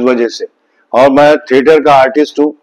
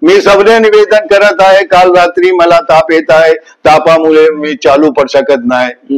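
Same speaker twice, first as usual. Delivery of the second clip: Marathi application; 2 semitones higher than usual. Shown as a demonstration. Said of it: "अब मराठी में बोलेंगे तो".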